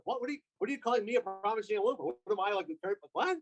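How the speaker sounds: quick, stumbling indignant questions; sputtering mock confusion; mock offended bafflement. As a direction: imitate someone lightly taken aback and confused. Imagined offended wrestler's baffled reaction.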